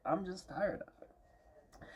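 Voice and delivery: soft and slow, drained of energy; worn-out sigh. Real, not acted. Vlogger trailing off, exhausted and quiet. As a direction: let it sag out slowly, exhausted. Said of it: "I'm tired".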